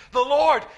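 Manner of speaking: "The Lord" with Lord punched loud; emphasis on Lord. Shown as a demonstration. Preacher shows Isaiah's amazement, Lord stressed loud. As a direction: hit "Lord" hard and let it fall. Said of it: "See the emphasis on the Lord?".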